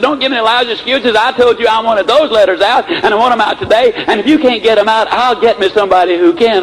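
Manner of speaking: high, insistent mock scolding; retold upset. Sales manager demanding letters from his secretary, mock irritation. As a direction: imitate a boss laying down an ultimatum. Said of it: "Oh, he was really upset".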